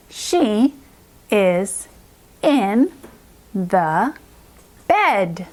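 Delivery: she is in the bed, a pause after each word; evenly spaced, separate words; word-by-word reading. Shown as a demonstration. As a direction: read like a beginner, word by word. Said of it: "let's now start reading".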